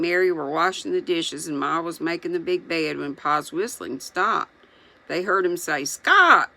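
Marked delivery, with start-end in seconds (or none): 5.9-6.5 loud, much higher alarmed shout; Pa shouting for his partner in the well, alarmed. A narrator's reading. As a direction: yell his name down the well in fear. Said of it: "he shouted".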